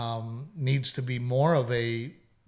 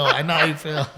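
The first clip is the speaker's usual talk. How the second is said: laughing; 4 dB louder than usual. Retold or imitated. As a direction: echo the line, easing off through the laughter. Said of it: "I go".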